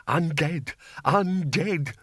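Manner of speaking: a bursar losing his grip, repeating himself; coming unglued. A narrator's reading. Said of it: "The bursar was becoming a little unglued".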